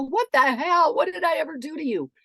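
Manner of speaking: high, loud indignant protest; acted-out affronted yell; mock outrage. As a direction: protest as the wronged victim. Acts reaction she avoids.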